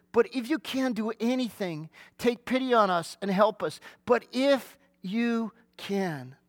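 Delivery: hesitant, doubting father slowing on the last if you can; doubtful plea. Shown as a demonstration. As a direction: let the doubt creep in as he pleads. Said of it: "Do you hear the doubt in that statement?".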